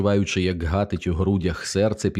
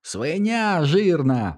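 high, slow, delighted squealing insult; gleeful squeal; 9 semitones higher, much slower than usual. A narrator's reading. Teddy gleefully squealing insults at Milo. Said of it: "радісно завищав Тедді".

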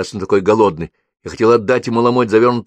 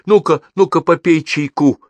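exclaiming; 9 semitones higher, 6 dB louder than usual. A narrator's reading. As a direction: coax the boy loudly to drink. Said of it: "воскликнула тётя Груша". (бодрый громкий возглас)

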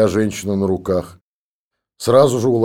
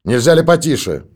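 voice behind the door; 7 semitones higher, 6 dB louder than usual. A narrator's reading. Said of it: "раздался голос из-за двери".

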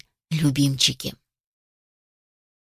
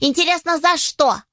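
surprised; 8 semitones higher than usual. Acted. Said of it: "удивились все".

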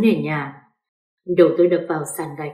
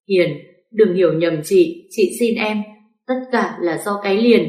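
mild tearful pleading. Acted. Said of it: "khóc lóc van xin".

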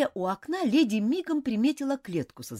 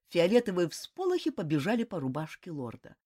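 ordinary delivery

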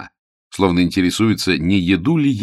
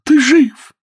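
high, loud cry of relief; joyful cry; 10 dB louder than usual. A narrator's reading. Millicent greeting Hugo back from the storm, loud glad cry. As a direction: cry out with joy that he's alive. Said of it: "Она вскричала".

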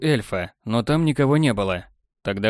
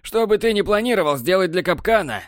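grim threat; 8 semitones higher than usual. A narrator's reading. Borland threatening Technar, high grim warning. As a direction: warn him, hard.

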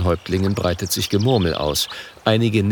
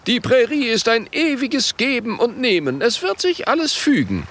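much higher, eager chieftain voice; a squeaky, zealous chief; high-voiced chief. Gelbes Ei antwortet eifrig.

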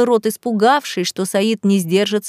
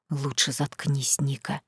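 muffled threat; 6 semitones lower, 10 dB quieter than usual. Acted. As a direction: threaten her quietly from deep down. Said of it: "пригрозил Саид глухим голосом".

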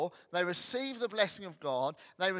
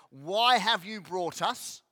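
grumbling Israelites; 3 semitones higher, 7 dB louder, slower than usual. Retold or imitated. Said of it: "They say".

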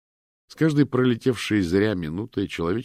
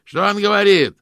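much higher, much louder shout; 14 dB louder than usual. A narrator's reading. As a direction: yell it from the back room. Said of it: "крикнул Фрэнк".

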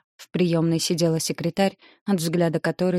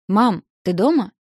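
put-on higher, louder girl's cautious call; 4 semitones higher, 6 dB louder than usual. A narrator's reading. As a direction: call out carefully into the flat. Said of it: "позвала Ника осторожно".

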